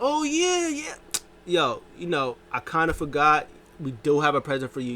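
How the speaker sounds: lightly hammed-up wrestler remembering; mock Bobby Lashley.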